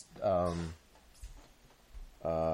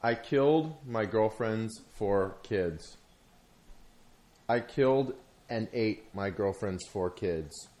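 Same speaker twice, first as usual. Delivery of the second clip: slow, deliberate retelling of the line; really slow; slower than usual. Retold or imitated. Retelling an animated lion's confession to a friend, slowly. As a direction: imitate a film voice, each phrase drawn out. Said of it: "It was, like, really slow, too".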